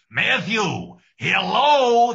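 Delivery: put-on high, loud old man answering the phone; grandfather impression. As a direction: greet him like a grandpa on the phone. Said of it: "my grandfather ... Al Pacino and Doctor Fauci".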